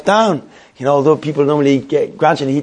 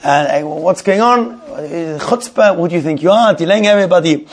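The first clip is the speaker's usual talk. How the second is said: higher-pitched retold irritation; irritated; 4 semitones higher than usual. Irritated shopper scolding the man holding up the queue, retold. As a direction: act out a fed-up complaint, mildly heated. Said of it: "He gets irritated".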